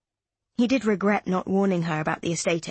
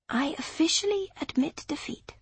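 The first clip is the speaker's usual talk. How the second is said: mock surrender; 8 semitones higher, 4 dB quieter than usual.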